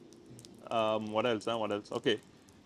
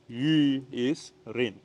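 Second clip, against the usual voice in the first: "Yu" drawn out slowly and clearly; slow teaching; 3 dB louder, much slower than usual. Shown as a demonstration. Teacher slowly modelling Mandarin yu for viewers. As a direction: spell out "Yu is rain" slowly for students. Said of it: "how do you pronounce Y U".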